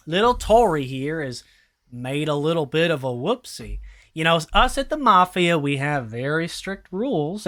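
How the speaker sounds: a hint of a smug, mock-polite crime boss; understated sinister boss scolding; lightly voiced mafia boss. Mafia boss explains Tori's punishment to the party, mock polite.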